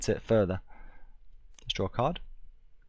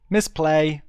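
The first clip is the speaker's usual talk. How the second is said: higher, louder self-scolding repeat; louder rueful repeat; 8 semitones higher, 7 dB louder than usual. Real, not acted. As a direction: stress the blunder more the second time.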